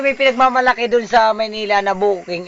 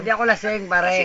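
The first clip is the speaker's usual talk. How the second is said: slurred, tipsy denial. Real, not acted. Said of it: "Lasing na lasing ka".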